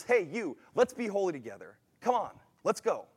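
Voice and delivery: mildly insistent, rallying call; emphatic invitation. Acted. God calling someone to join in holiness, emphatic invitation. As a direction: urge them along with a touch of force. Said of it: "It's like a emphatic invitation".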